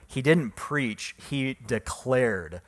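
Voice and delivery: slow, with "declared" set against "preach"; contrastive stress. Shown as a demonstration. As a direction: land hard on "declared". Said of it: "That's what that word means".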